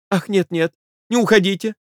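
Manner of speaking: cry out. Acted. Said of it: "закричала жена".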